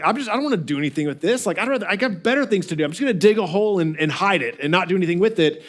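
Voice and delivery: fast, careless brush-off; lazy dismissive. Retold or imitated. Lazy servant shrugging off work, dismissive. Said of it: "So his laziness was like".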